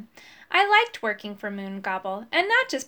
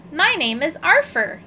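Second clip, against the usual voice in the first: higher, louder call upward; shouting up; 5 semitones higher, 6 dB louder than usual. A narrator's reading. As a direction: shout up to a tall boy. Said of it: "shouting up at me".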